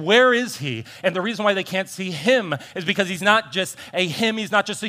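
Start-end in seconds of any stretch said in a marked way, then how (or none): 0.0-0.8 mock crowd call. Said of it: "they're saying".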